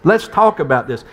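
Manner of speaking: lightly voiced Alabama accent; retold switch to Southern accent; imitated Southern Black woman's accent. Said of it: "went from this really proper accent to".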